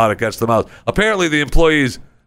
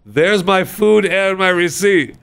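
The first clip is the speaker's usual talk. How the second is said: demanding customer; 8 semitones higher, slower than usual. Retold or imitated. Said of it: "he just turns his camera and goes".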